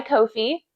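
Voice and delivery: "Ko-fi" said as KOH-fee; Ko-fi pronounced coh-fee. Shown as a demonstration. Vlogger naming her download site, "Ko-fi" as KOH-fee. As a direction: say "Ko-fi" with a long O, then fee. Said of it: "Yes, that's how it's pronounced".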